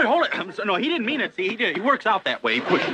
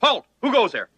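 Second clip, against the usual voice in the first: sentry challenge; 4 semitones higher than usual. Acted. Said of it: "As officer of the day".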